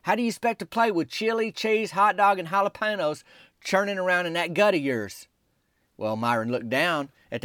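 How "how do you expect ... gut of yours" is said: scolding. Retold or imitated. Scolding Myron in retold exchange.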